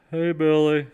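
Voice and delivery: redneck idiot voice. Retold or imitated. Streamer doing a cartoon voice for bored viewers, loud and high. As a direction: bellow it like a dim cartoon hick. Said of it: "sounds like the redneck idiot".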